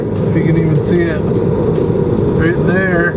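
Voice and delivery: talking while lying under a car; speaking on your back under a car. Real, not acted. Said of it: "so I'm under the car right now".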